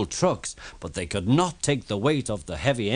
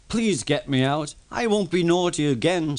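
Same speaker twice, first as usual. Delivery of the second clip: pleading; 6 semitones higher than usual. Acted. Thomas pleading.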